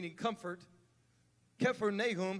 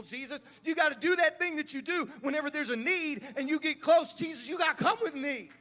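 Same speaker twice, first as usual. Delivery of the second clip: desperate pleading father; 2 semitones higher than usual. Acted. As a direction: plead urgently, gotta come, over and over. Nobleman begs Jesus to come.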